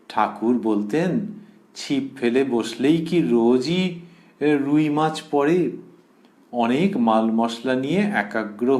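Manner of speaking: slow, measured devotional reading; scripture reading aloud. Acted. Speaker reads Mother's advice on japa to devotees, slow measured reading. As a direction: read it out slowly, phrase by phrase.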